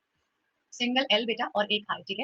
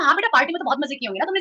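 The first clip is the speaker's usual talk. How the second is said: fast, mocking dig at the kid; sarcastic taunt; 3 semitones higher, 3 dB louder, faster than usual. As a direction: tease them into answering. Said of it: "उकसा उकसा के ना बात पूछना". (तेज़, व्यंग्य भरा ताना)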